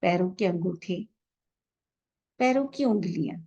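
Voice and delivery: unhurried, calm meditation guide with long pauses; measured relaxation-session voice, leaving space after each instruction; guided meditation. Real, not acted. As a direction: guide listeners gently into relaxation, drawing out the breathing cues.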